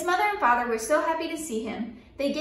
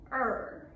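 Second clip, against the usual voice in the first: soft lion purr; imitated purr; 7 dB quieter than usual. A narrator's reading. Storyteller as the lion seeing the little boy, purring. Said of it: "it purred".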